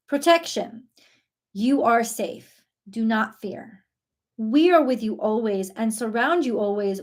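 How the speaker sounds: card reading. Acted. Reader to viewers, calm soothing card reading. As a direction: read the message like a gentle blessing. Reads angel card messages aloud.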